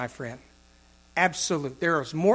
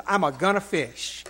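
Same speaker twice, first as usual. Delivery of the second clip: amused quote. Retold or imitated. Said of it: "the way the King James says".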